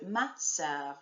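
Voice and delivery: sœur with a soft, barely heard final R, slowly; ma sœur slow, R not rolled at the end. Shown as a demonstration. Teacher contrasting the soft final R in sœur. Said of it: "doesn't happen at the end of the word".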